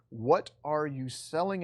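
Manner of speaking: slow, deliberate repeat of the question; slow rhetorical repeat. Shown as a demonstration. Teacher repeating key question to students, slow and deliberate. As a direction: draw the question out to make them think.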